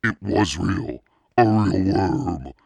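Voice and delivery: high, loud, slow dawning horror; horrified. A narrator's reading. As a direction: let the horror land slowly. Horrified realization, narrated.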